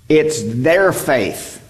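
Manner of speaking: "their" leaned on, slow and deliberate; stress on THEIR. Shown as a demonstration. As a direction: drag it out, weight on "their". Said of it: "But it is their faith".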